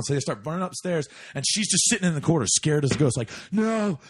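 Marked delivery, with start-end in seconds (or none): 3.5-4.0 high, building cries of no; screaming bloody murder. Retold or imitated. Scared girl in the corner, screaming bloody murder. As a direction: imitate her terrified screams, climbing higher. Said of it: "like, fucking bloody murder".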